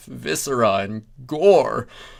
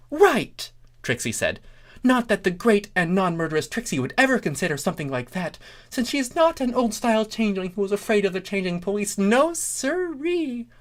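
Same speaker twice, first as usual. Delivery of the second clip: high, fast boastful showpony; higher fast third-person bragging; Trixie voice; 9 semitones higher, faster than usual. A narrator's reading. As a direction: rattle it off with grand self-importance.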